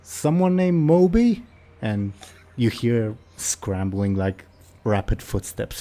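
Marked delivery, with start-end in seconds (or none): 0.0-1.4 high, loud questioning elf; puzzled elf in a raised voice. Acted. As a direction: call the answer up, pitched high. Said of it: "the elf says".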